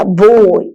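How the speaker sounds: "ബോയ്" drawn out as one unbroken syllable; one-breath syllable. Shown as a demonstration. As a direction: say "ബോയ്" in a single breath, no break. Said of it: "ഒറ്റ ബ്രീത്തിൽ പറയാൻ കിട്ടുന്നത്". ("ബോയ്" ഒറ്റ ശ്വാസത്തിൽ)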